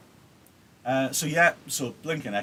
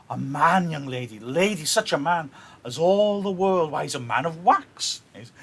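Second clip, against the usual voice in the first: proud matchmaking mother; 4 dB louder than usual. Acted. Reading Lady Capulet's speech.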